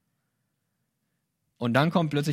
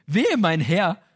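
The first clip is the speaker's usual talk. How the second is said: louder, rising mock alarm; panicked cry; 4 semitones higher, 6 dB louder, slower than usual. Gideon grasping he faced God, alarmed cry. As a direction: cry it out as the truth dawns. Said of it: "komplett panisch und hysterisch".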